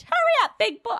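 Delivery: very high, loud come-hither call; sultry offstage line. Acted. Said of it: "I'm the one who did the line".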